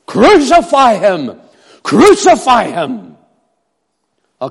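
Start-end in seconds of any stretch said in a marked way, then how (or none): 0.1-3.2 slow, loud chant of the mob; crowd shouting. Acted. Preacher voicing the uproar of the crowd, slow shout. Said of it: "The crowd was in an uproar".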